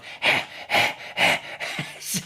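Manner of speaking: exaggerated out-of-breath panting; voiceless comic huffs; imitated huffing. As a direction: puff hard as if winded from the chase. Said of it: "I'm huff".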